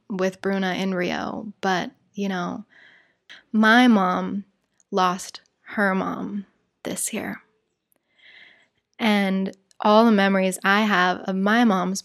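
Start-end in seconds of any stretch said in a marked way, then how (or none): 4.9-7.4 slow, whispered and sad. Real, not acted. Telling of grandmother's death.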